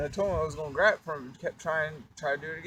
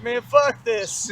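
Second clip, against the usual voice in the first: angry; 5 semitones higher, 8 dB louder, much slower than usual. Retold or imitated. Bobby ready to fight.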